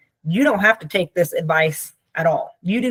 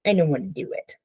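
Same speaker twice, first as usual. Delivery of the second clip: put-on sulky child; 2 semitones lower, 4 dB quieter than usual. Shown as a demonstration. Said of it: "think of it when you fall into that as".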